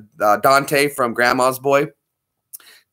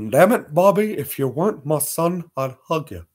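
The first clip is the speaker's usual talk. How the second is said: Hank Hill; 3 semitones higher than usual. Retold or imitated. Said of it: "Hank Hill".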